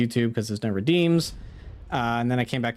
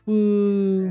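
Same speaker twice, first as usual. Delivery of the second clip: excited whoop; 7 semitones higher, 4 dB louder than usual. Real, not acted. Cheering about tomorrow's raid.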